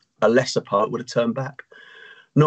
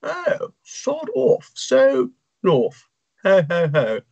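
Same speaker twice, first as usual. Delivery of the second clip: mocking reply; 7 semitones higher, slower than usual. Sloth mocks Ron back.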